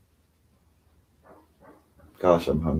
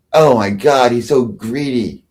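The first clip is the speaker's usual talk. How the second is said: mock outrage; 3 semitones higher, 4 dB louder than usual. Mimics her outraged reply to him.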